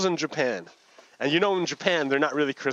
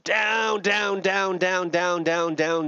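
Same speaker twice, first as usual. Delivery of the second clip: descending repetition; 5 semitones higher, much slower than usual. Acted. Storyteller lowering the spider silk, steadily descending chant. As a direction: let each word sink a step in pitch. Miming the silk's long descent.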